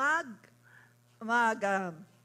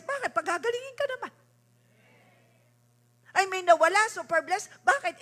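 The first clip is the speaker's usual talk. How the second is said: raised, lively call-and-answer preaching; animated preaching; 5 semitones higher, 6 dB louder, faster than usual. Acted. Preacher coaching believers through troubles, animated high-pitched preaching. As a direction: pitch up each trouble, then answer it emphatically.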